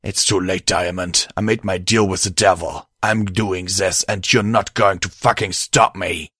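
understated angry resolve; mildly angry growl. Acted. Host who made a devil's deal, mildly angry. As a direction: refuse with a touch of anger. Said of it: "my host growled angrily".

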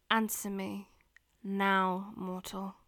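deep, loud commanding demon. Acted. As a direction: bark the order like a demon. Demon commands her victim.

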